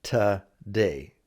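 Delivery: "today" opening on a weak "tuh"; reduced first syllable. Shown as a demonstration. Teacher repeats a common variant for learners, reduced "tuh-day". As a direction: make the start of "today" a neutral "tuh", then "day". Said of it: "almost like it should be T A".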